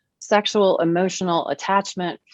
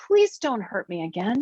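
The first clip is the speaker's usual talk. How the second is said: desperate plea; 3 semitones higher than usual. Acted. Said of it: "trying desperately to say".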